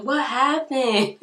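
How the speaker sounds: high, drawn-out "what happened?"; mock puzzled question. Husband sees her face and asks, mock puzzled.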